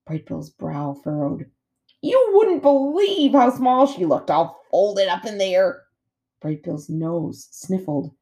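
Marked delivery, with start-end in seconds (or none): 2.0-5.8 high, slow, drawn-out otter voice; storytelling otter, marvelling. A narrator's reading. Otter telling gosling about his tiny mom, marvelling. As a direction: stretch it out in amazement.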